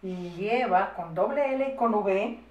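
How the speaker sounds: slow, spelling out as dictated; drawn-out word, then its spelling; slow dictation. Shown as a demonstration. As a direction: dictate at writing speed.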